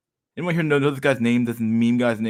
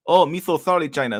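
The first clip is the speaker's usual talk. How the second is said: groveling apology; 6 semitones higher, 4 dB louder than usual. Retold or imitated. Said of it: "He's like".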